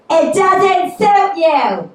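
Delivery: high, loud, drawn-out mock customer; blunt stranger. Customer to a woman trying on a dress, loud high singsong. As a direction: sing out a blunt verdict, slowly.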